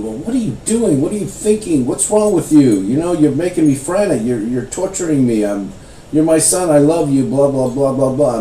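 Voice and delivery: a hint of a worried mother nagging; mild scolding mother. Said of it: "She's mad".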